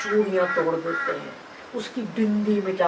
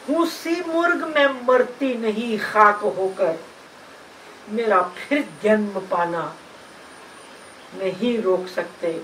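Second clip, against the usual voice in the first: poem recitation. Acted. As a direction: recite in measured phrases with pauses. (लय और ठहराव से नज़्म का पाठ)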